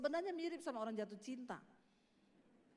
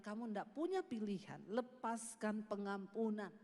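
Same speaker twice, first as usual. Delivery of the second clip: voice of God; 5 semitones lower than usual. Retold or imitated. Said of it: "Tuhan bilang".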